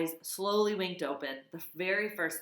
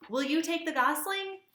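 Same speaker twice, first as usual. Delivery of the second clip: hopeful robot voice; 12 semitones higher, 4 dB louder than usual. A narrator's reading.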